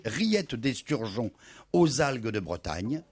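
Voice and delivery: talking with mouth full. Real, not acted. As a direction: mouth full of food, words slowed. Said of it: "je vous fais la bouche pleine".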